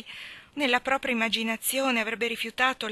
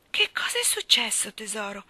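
solicitous concern; 4 dB louder than usual. A narrator's reading. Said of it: "si informò sollecita Phil".

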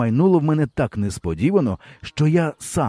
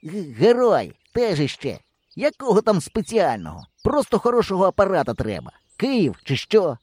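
high, lightly voiced scoff; a boy scoffing at his partner's camera; scornful boy; 8 semitones higher than usual. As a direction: swallow the insult, then scoff. Hero catching himself.

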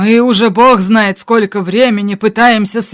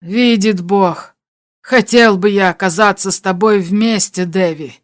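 understated regret; losing firmness. A narrator's reading. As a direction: let the firmness slip, falling away at the name. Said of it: "Голос Шустера утратил твёрдость".

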